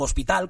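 "hospital" with no h sound; silent H. Shown as a demonstration. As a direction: start "hospital" straight on the o. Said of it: "la pongo sorda".

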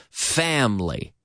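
FAMILY in two syllables, middle vowel dropped; two-syllable pronunciation. Shown as a demonstration. Teacher modelling the word for Spanish learners, two syllables. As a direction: say family tightly as FAM-lee. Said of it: "talking about two-syllable words".

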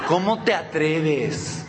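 very slow theatrical outrage; drawn-out hammed-up reproach; mock indignation. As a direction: stretch it out as if gravely affronted. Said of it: "Cuánta indignación".

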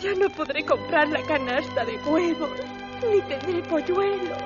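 put-on weepy girl bidding goodbye; tearful milkmaid. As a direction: sob through the farewells. Milkmaid weeps her losses. (lecherita llorosa)

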